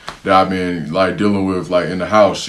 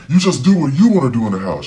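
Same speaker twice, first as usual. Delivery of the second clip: mocking the mom; 6 semitones higher than usual. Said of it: "She's like".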